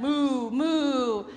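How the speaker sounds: loud high mooing; cow mooing. Acted. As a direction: moo like a cow. Cow noise.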